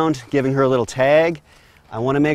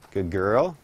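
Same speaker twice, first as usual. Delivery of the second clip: reward her gently; 4 semitones lower than usual. Real, not acted. Praising the horse while driving.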